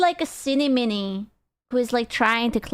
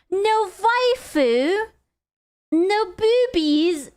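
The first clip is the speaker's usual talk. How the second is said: mock whine; 7 semitones higher, much slower than usual. Disappointed about plain cups.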